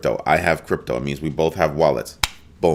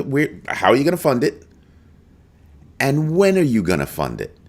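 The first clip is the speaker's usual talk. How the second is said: demanding questions; 8 semitones higher than usual. Real, not acted. Demanding answers from Trump.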